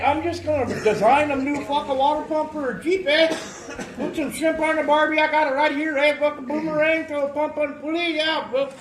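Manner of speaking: put-on over-the-top Australian accent, loud and high; Australian bloke impression. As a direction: play a cartoon Aussie tossing off a fix. Joking Aussie bloke impression.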